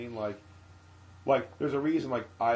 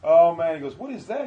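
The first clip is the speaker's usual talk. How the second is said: Upchuck; 8 semitones higher, 16 dB louder than usual. Retold or imitated. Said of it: "hosted by a clown named Upchuck".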